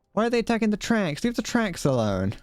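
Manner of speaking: rising indignant outburst; high, fast outraged question. Real, not acted. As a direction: fire it off high and quick. Enemies attacking the tracks.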